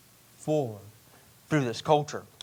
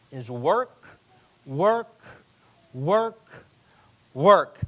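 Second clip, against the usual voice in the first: each work louder and higher than the last; growing frustration; 3 semitones higher, 7 dB louder, much slower than usual. Retold or imitated. Exhausted guy telling the pastor his story, building to a mock shout. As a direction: build the complaint word by word to a shout. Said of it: "and he says".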